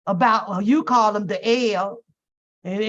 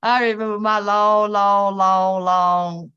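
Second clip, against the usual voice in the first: drawn-out long; 2 semitones lower, 4 dB louder, slower than usual. Acted. Telling the family an ancient story, stretching each long. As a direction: drag out every long like an old tale.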